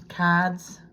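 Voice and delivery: accidental Boston accent. Real, not acted. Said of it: "What am I, from Boston?".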